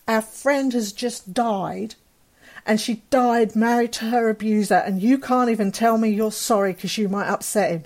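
mild retold outrage; imitating an indignant cousin, restrained; retold losing it. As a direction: reproach them, acting out an upset cousin. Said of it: "lost it".

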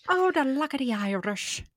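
playful put-on Irish brogue; mock Irish. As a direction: echo a cartoon Irishman. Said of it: "I feel like that's so Irish".

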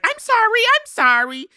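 high, mock tearful apology, repeated; a quick hammed-up sob of sorry; breaking down. Diana apologizing to the housekeeper, mock tearful and high. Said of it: "And then she breaks down".

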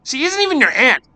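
put-on high, loud spiteful girl; spat angrily. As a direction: spit the words out. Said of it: "spat Marie".

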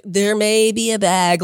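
drawn-out, careful mock-casual admission; trying to be cool. Suspect admitting a bag to officers, trying to be cool. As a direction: feign nonchalance, stretching it out slowly. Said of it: "trying to be cool about it".

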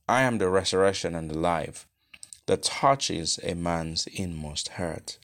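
solemn scripture, quick then slowing; grave and earnest, slowing at the end; with solemnity. Acted. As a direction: intone it like a graveside blessing. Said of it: "said with solemnity".

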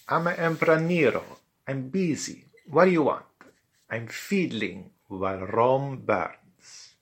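put-on high-pitched, accented crazy emperor; Emperor Nero. Roman emperor disturbed while fiddling, high irritable accented voice. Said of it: "It was Emperor Nero, perverted Roman emperor".

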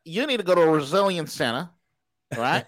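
put-on Aussie advice; Australian accent. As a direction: advise in a mock Australian accent. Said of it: "It's Australian V this morning".

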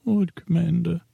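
a failed Stannis that slips up high; a squeaky off-key try at grim Stannis; botched Stannis. Retold or imitated. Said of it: "that didn't even sound like you".

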